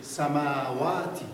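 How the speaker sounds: سماواتی read slowly with every syllable drawn out; slow drawn-out model reading. Shown as a demonstration. Teacher models the word for students, drawn out. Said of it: "بخونید".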